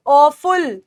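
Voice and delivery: ऑफुल with a long open "aw" at the start; pronunciation demo. Shown as a demonstration. Teacher showing learners how to say it, slow pronunciation demo. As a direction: say ऑफुल slowly, opening on "aw". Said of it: "इसे बोलेंगे कैसे".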